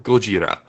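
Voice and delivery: Gojira, go-jee-ra, the Japanese way. Shown as a demonstration. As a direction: say Gojira like the original film. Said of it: "they say Gojira".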